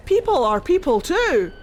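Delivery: lightly voiced Mythal pleading; pleading goddess. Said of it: "Mythal was like".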